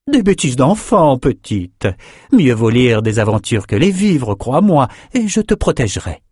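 voix plus aiguë et plus forte, dédaigneuse; mémoriste condescendante. Acted. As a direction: balayer l'idée d'un revers de voix. Victoria balaie l'objection. (Victoria qui traite la mission de bêtise)

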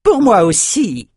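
very high, slow victory cry; match a comrade's boast; drawn-out, high triumphant call; echoing shout. A narrator's reading. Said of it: "lui fit écho Thorn".

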